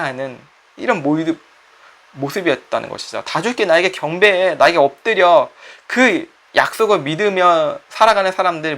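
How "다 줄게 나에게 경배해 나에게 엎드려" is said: commanding Satan. Acted. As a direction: lure and command like the devil. Satan demands worship again.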